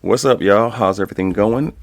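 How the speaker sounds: hype greeting. Real, not acted. Greeting the audience loudly.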